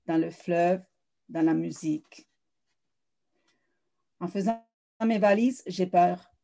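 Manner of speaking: measured literary recital with pauses between phrases; poised, deliberate verse reading, letting each image land; poetry reading. Acted. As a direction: read your own poem aloud, phrase by phrase. Reads own prologue and poems aloud.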